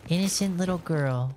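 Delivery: high, whiny pretend scold; mock viewer outrage. Imitating chat viewers scolding him for being mean, whiny. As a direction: whine it like a shocked viewer. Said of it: "they're just like".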